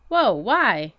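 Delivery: demanding. A narrator's reading. Boy demands why they must get in the car, loud. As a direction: push back hard on the cops. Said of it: "I demanded".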